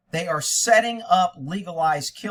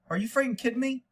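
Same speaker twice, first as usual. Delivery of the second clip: incredulous; 9 semitones higher than usual. Real, not acted. Host reacts to liquor answer.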